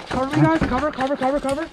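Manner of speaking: loud urgent call for cover; cover me shout. Real, not acted. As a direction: shout it across the field to teammates. Calling teammates for cover in game.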